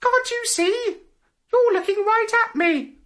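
very high, tiny fluttering butterfly. Acted. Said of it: "said a fluttering little voice".

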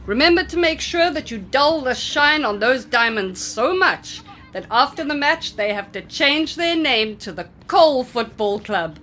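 a hint of a cheerful coach rallying the team; coach's voice. Coach jokes to his players before the match. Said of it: "said their coach".

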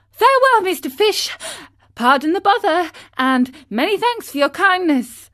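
high, loud, hurried goodbye; scared marionette thanking the dolphin; hasty frightened farewell. A narrator's reading. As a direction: say goodbye fast, eager to flee. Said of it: "scared to death".

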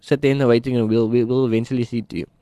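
a hint of a scornful doctor; dismissive doctor. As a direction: brush him off, half mocking.

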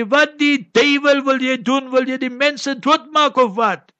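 an angry Afrikaans cop, loosely hammed up; imitating an angry cop. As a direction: retell the cop yelling at him, half-hearted. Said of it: "he's shouting and screaming".

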